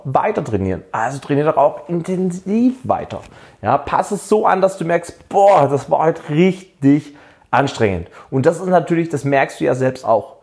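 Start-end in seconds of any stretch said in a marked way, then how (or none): 5.3-8.1 drawn-out "boah", slow and emphatic; impressed exertion. Acted. Trainee noticing the workout was tough, mock-exhausted emphasis. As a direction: act out feeling the effort.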